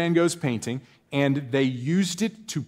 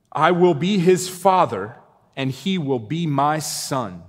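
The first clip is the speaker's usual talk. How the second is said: slow, solemn reading of the verse; slow solemn Bible reading; scripture reading; slower than usual. Acted. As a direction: read it with weight, slowly.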